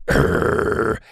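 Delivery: low unvoiced growl imitating a pit bull; imitated dog growl. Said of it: "his dogs on cue went".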